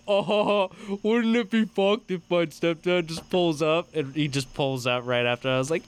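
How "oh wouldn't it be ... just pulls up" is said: retold worried thought. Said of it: "how I was like".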